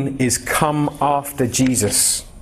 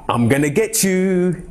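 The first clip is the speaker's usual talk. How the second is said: slow, higher mock-menacing tease; playful daddy threat; 4 semitones higher, slower than usual. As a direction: tease a toddler. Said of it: "I play this game with Jada".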